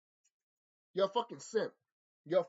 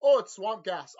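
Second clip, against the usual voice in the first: laughing mock voice; 5 dB louder than usual. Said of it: "the other Velma".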